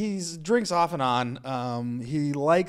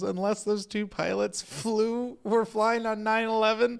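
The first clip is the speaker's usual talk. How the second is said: lightly voiced dad, pitched higher; higher-pitched mock grievance; mad dad; 8 semitones higher than usual. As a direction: imitate an indignant father laying down the law. Acts out his mad dad.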